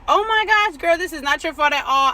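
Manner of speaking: the phone agent surprised on her behalf; lady on the phone. Retold or imitated. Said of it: "and she was like".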